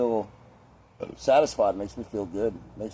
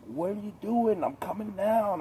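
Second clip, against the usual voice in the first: mimicking her, pitched way up; high female voice; 11 semitones higher than usual. Imitating the girl asking what he's doing, high voice. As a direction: play her calling out, high and light. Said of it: "She's like".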